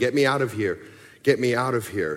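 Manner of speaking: ordinary talk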